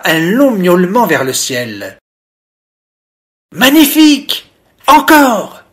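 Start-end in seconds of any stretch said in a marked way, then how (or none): 3.5-5.6 high, loud delighted exclamation; excited cry. A narrator's reading. Little fish cheering the cat's meow, high and loud. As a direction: cry out, thrilled by the song. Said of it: "s'écria Mimo".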